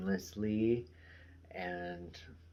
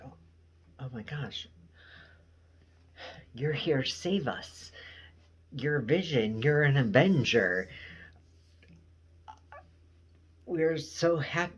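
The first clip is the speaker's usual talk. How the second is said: higher and louder, building excitement; gushing Agnes; 7 semitones higher, 6 dB louder than usual. Retold or imitated. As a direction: gush over the hero, building louder. Agnes voiced, jolted awake, gushing.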